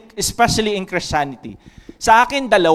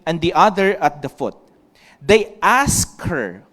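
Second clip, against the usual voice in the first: louder, measured Bible reading to the congregation; scripture reading; 4 dB louder than usual. Acted. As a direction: read the Gospel slowly and clearly, from the pulpit. Pastor reads John 20 aloud.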